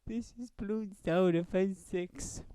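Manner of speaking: high, slow, grand announcement; dramatic movie-trailer line. Pretend. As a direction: proclaim the game title like an epic trailer. Mock epic interview question climax.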